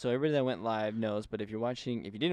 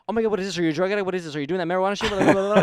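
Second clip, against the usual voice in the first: higher, louder imitation of a panicking mom; freaking-out mom; 8 semitones higher, 10 dB louder, much faster than usual. Retelling mom's panic over the pen, a higher, louder mock rant. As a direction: imitate a mom asking if her kid is a drug addict. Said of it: "she was freaking out".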